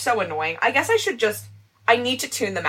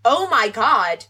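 David Rose-ish exasperation; much slower than usual. Real, not acted. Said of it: "You just sounded like David Rose".

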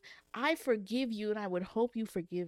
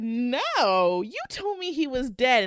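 louder, accusing cry; light mock outburst from the betrayed kid; understated angry daughter; upset daughter; 3 semitones higher, 8 dB louder, much slower than usual. Daughter confronts her mother.

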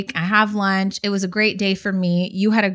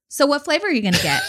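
put-on light, quick little girl voice, a bit higher; lightly voiced curious kid asking; 5 semitones higher, faster than usual. Stranger's little girl asks the narrator at the counter, light quick child voice. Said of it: "I hear this little girl voice".

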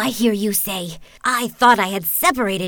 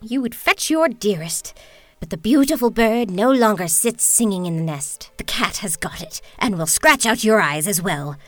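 loud, cruel witch's taunt; 14 dB louder than usual. Acted. Witch taunting the prince at the window, loud and cruel. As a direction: gloat over the prince's loss.

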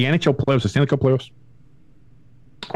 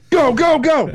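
high, laughing go go go; 4 dB louder, slower than usual. Real, not acted. Host laughs at cohost waiting for a clear. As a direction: laugh it out, hurrying him on.

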